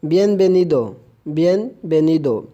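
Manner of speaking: "bienvenido" with its v said as a B. Shown as a demonstration. Teacher models the welcome word, v sounded as B. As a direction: say "bienvenido" as "bienbenido", both consonants B. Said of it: "बी और वी दोनों ही बी की आवाज़".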